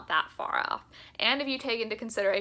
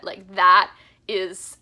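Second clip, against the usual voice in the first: excited; 7 dB louder than usual. Real, not acted. Fan gushing about concert opener.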